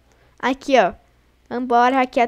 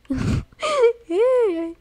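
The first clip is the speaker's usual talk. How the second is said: a squeaky, higher laugh of relief; high nervous laugh; 9 semitones higher than usual. Real, not acted. Gamer laughing after a close call, high nervous laugh. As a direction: laugh high, half crying. Nearly caught by the beast.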